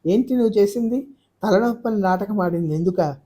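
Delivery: high, furious rebuke; angry outburst. Acted. Aruna accusing her brother, high and enraged. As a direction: scold him in disgust. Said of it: "ఆవేశంతో మాట్లాడుతున్న అరుణ".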